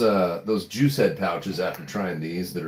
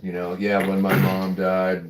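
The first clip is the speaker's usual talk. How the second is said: monotone impression. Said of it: "everything he says is at the same tone".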